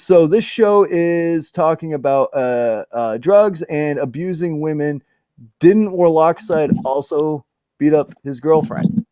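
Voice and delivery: slow put-on reading voice; reading Chris's comment. Reading a viewer comment aloud in a slow put-on voice. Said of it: "Chris says".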